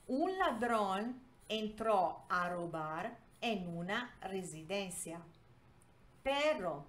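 measured Spanish reading with pauses between phrases. Shown as a demonstration. Teacher reading a Spanish story to learners, measured read-aloud.

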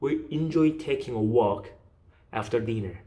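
slow repeat-after-me reading, pause before "After dinner"; phrased in chunks. Shown as a demonstration. Teacher leading students to repeat along, chunked phrasing. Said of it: "계속 따라 하셔야 됩니다".

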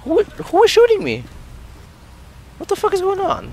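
very high-pitched outraged disbelief; exasperated yelling. Real, not acted. Gamer being shot by someone unseen, high exasperated yell. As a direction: shriek your confusion at unseen attackers. Player under fire from unseen enemy.

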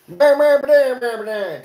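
imitating a relative nobody can understand; mumbling in-law. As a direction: garble it like an unintelligible in-law. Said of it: "that one in-law that's like".

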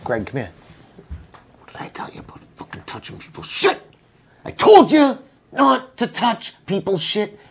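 mock scolding boss. Boss hushedly scolding Greg for touching groceries. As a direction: chew out the bagger under your breath. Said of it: "tell the camera the same way you told Greg".

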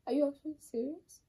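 can't believe what she heard; stunned disbelief. Real, not acted. Wife repeats, shocked.

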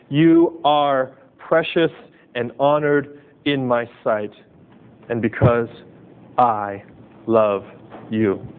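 slow, deliberate reading of the verse, each word weighed; scripture reading. Shown as a demonstration. Pastor reads God's words to the congregation, slow and tender. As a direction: linger on every word as you read it aloud. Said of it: "Isaiah chapter forty-three, verse four".

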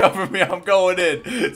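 slow hammed-up hero shout; cover me shout. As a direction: stretch it out like a movie. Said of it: "You guys need to cover me".

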